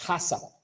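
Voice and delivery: HASAP said as one word, not letter by letter; pronounced as acronym. Shown as a demonstration. Teacher showing how the acronym is pronounced, HASAP as one word. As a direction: say HASAP as a single two-syllable word. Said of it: "también se pronuncia hasap".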